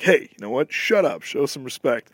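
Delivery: lightly voiced heroic scold; a hint of a stern wartime hero; Steve Rogers. Captain America in a newsreel scolding a heckler, a light heroic scold. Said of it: "Steve Rogers in the war newsreel".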